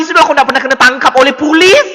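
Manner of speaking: ordinary talk, nothing marked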